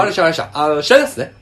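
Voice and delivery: lightly mocked pushy older man on the phone; a hint of a brusque, dismissive coworker; half-hearted impression of a domineering coworker; overbearing older man. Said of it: "こんな喋り方や".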